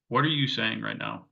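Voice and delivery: calm, even question, not aggressive. Retold or imitated. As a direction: ask it steadily and without any edge. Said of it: "In a very calm voice".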